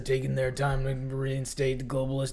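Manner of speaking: mock conspiracy radio rant; hammed-up paranoid host ranting; Alex Jones impression. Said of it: "a really bad Alex Jones impersonation".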